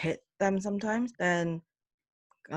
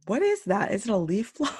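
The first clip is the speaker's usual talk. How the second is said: startled; 5 semitones higher, 5 dB louder than usual. Real, not acted. Leaf blower noise interrupts recording.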